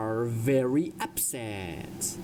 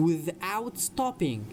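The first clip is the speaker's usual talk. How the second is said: slow, deliberate sentence for learners; slow model reading; 4 semitones higher, much slower than usual. Shown as a demonstration. Teacher reads a story sentence to English learners, slowly. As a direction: draw each word out for students.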